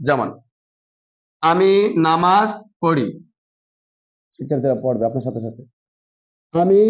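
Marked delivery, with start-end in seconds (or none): 1.4-3.1 আমি নামাজ পড়ি read smoothly in one slow flow; normal reading. Shown as a demonstration. Teacher reading the full sentence smoothly for pupils to follow. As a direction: read the whole sentence through without breaks, unhurried. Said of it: "স্বাভাবিক নিয়মে reading".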